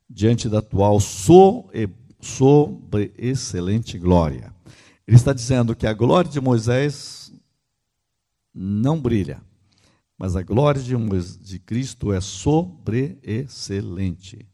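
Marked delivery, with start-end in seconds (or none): 1.0-4.0 sobreexcelente broken slowly into syllables; emphatic sobreexcelente. Real, not acted. Stressing a key scripture word. 12.2-14.4 sobreexcelente slowly split into syllables; emphatic sobreexcelente. Real, not acted. Repeats key word for emphasis.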